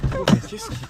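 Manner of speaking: startled by the wailing; alarmed. Acted. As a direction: friend startled by sudden wailing.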